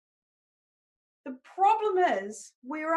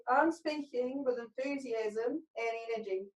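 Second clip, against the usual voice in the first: curled up, chin down; 5 dB quieter than usual. Shown as a demonstration. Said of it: "curl up into a little ball".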